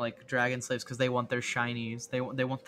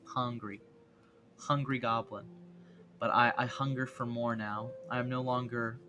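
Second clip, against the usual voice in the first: lightly voiced munching goblin; a hint of a hungry creature. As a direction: play a little goblin nibbling away. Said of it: "I'm a goblin".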